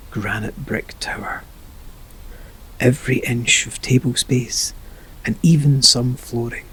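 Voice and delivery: slow, measured meditation narration with long pauses; guided meditation. Acted. Narrator leading a listener down into an imagined room, guided meditation. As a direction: paint the scene unhurriedly, phrase by phrase.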